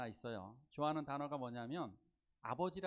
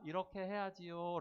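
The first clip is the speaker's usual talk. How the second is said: gentle guidance; 3 semitones higher than usual. Shown as a demonstration. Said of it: "라고 얘기해요".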